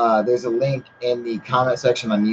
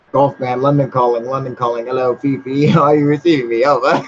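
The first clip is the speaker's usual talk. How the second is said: radio operator; 5 dB louder than usual. Pretend. Reads viewer's radio-call message aloud.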